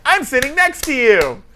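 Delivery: mock announcement. Big man telling plane seatmate, mock announcement. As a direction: announce it slowly in a lifted voice. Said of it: "when you're like".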